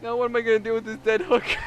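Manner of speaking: high, loud put-upon voice of the friend; friend's high whine over a dead body; baffled friend. Retold or imitated. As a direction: play the friend, stuck and exasperated. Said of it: "looks back at his car and goes".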